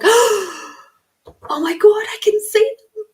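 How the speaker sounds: very high, breathless whisper of wonder; overwhelmed, barely getting the words out; astonished. Retold or imitated. Whispering in awe on seeing fairies around the client.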